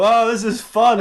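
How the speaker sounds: mock-gleeful high exclamation; high-pitched play-acted glee; playful delight. Cops playing in the paddling pool, playful delight.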